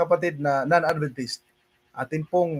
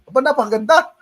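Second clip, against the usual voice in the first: laughing amazement; 3 semitones higher, 4 dB louder, much faster than usual. Real, not acted. Preacher amused by teacher's saying, laughing wonder. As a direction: marvel at it through a laugh.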